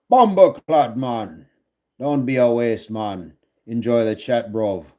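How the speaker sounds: put-on Jamaican accent, each phrase falling away; mock Jamaican accent. Streamer ribbing a viewer in chat, mock Jamaican accent. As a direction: tease in a hammed-up Jamaican accent. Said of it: "Am I talking with a Jamaican accent?".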